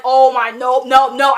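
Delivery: loud pleading "no, no"; loud horrified protest at a stabbing; reader's dismay. Retold or imitated. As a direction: cry out in alarm at the page. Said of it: "And I was like".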